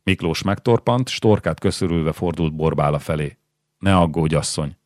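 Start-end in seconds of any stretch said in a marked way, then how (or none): 3.8-4.8 a gentler, calmer "Ne aggódj, asszony"; softened voice. Acted. Miklós calms his worried wife, with a gentler voice. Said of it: "enyhült meg a hangja".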